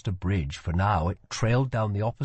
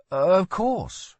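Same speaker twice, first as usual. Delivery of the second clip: put-on higher, lighter girl's voice; a curious young woman asks; 10 semitones higher, 4 dB louder than usual. A narrator's reading. Lila echoes.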